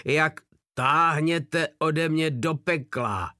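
slow, loud furious yell at the soldier; captain losing his temper, shrieking. Acted. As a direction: scream it out in rage, slowly. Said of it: "zaječel von Páder".

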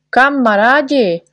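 rally everyone against the insult; doctor rallies friends against the poet, loudly; rallying call. A narrator's reading. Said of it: "volal doktor Pilulkin".

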